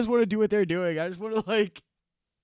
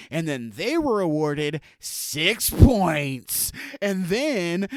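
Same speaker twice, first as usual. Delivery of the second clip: mock exposé with dragged-out "six points"; insinuating inflection; 4 dB louder than usual. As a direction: lean on "they" and "six points" as if scandalous. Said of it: "your inflection makes it like there's corruption".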